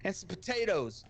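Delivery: a hammed-up complaint at the waiter; mock rant. Tourist ranting at the French waiter about carbs, mock exasperated rant.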